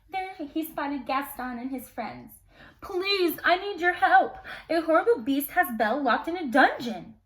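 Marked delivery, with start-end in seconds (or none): 2.8-7.1 higher, louder frantic begging; mild frantic father; desperate plea. Acted. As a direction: beg the tavern for help. Maurice begging tavern.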